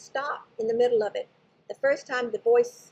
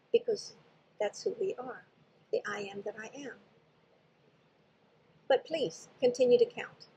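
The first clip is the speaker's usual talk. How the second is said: retold gently, much softer and calm; gentle, soft voice. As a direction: speak it like a kind, quiet presence. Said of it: "the voice very gently says".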